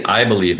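hard "I" before a light "believe"; stress on I. Shown as a demonstration. Coach explaining the attention grabber, "I" punched. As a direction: punch "I" and drop away. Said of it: "and you hammer "I".

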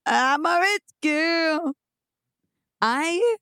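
high, slow mock snooty boast. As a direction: play the spoiled rich girl. Mock proud reply to teasing.

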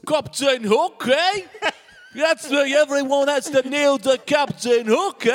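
loud, high hammed-up pirate voice; pirate parrot. Parrot boasting about Captain Hook, loud hammed-up pirate.

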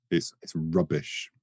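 stretched, posh British rubbish; British accent demo. Shown as a demonstration. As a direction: show how to say rubbish, British style. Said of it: "You need more".

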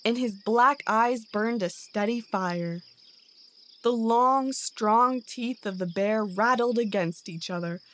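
ordinary delivery

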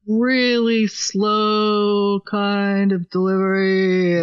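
very slow, drawn-out Southern drawl. Shown as a demonstration. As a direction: stretch it out like a lazy rural Southern drawl. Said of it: "it's almost a Southern drawl".

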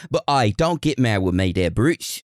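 hammed-up British accent; lightly put-on, clumsy British accent; mock British accent. Host placating a listener from England, in a mock British accent. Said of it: "best British accents, which you already got it from me".

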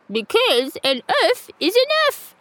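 high, gleeful rooster voice; cockerel punchline. A narrator's reading. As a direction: deliver the pun with glee.

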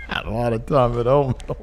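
put-on Southern accent. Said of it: "that's a really good Southern accent".

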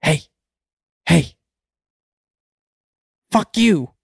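high-pitched parrot, pausing between calls. Acted. Parrot insulting a passing pet store customer, high voice. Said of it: "the parrot says".

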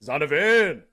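high, loud player-name shout; celebratory yell. Pretend. Co-host trying out the winning bet yell, playful shout. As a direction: holler the name as a mock victory cry. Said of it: "what are you gonna yell?".

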